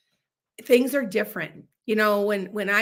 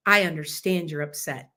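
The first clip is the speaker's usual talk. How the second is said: calm de-escalating; 3 semitones lower than usual. Shown as a demonstration. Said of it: "all they have to do is say".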